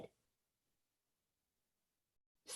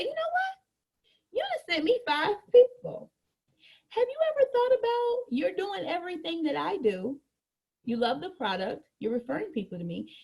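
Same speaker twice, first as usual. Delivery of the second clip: persuasive pitch; 4 semitones higher than usual. Acted. Acted pitch to customer.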